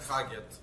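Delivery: "Kagyat" softly, ending on a clear T; quiet "Kagyat", T at the end; village pronunciation. Shown as a demonstration. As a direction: say "Kagyat" with no r and a final T. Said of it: "a T sound on the end of it".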